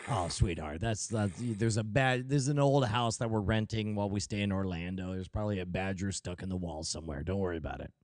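calm the little one down; playing a father reassuring his scared daughter; reassuring dad. Father soothing child in skit.

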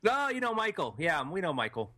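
a bad New Zealand accent; weak attempt at a Kiwi accent. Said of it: "That's the worst New Zealand accent I've ever heard".

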